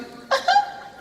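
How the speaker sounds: high mock sob; short squeaky burst of pretend crying; hammed-up sob; imitated crying. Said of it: "this girl started crying".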